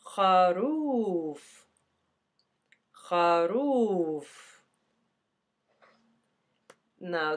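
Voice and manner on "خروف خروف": خروف said slowly, each sound drawn out; slow Arabic word. Shown as a demonstration. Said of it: "Move into the sheep".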